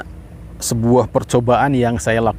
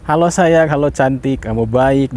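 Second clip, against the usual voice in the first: loving tone. Retold or imitated. Greeting the jar of rice each morning, lightly loving and sweet. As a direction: coo gently as if to a loved one. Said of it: "intonasinya itu damai, penuh cinta".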